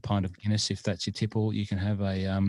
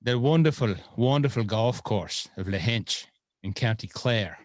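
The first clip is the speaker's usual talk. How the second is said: bad Irish accent; 3 semitones higher, 3 dB louder than usual. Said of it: "That's a very bad Irish impersonation".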